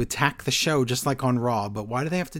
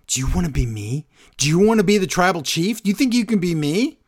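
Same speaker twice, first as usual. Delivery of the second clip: mock taunting; 4 semitones higher, 3 dB louder than usual. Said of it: "He looks at Sami and he says".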